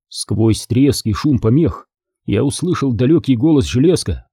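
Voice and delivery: plain reading voice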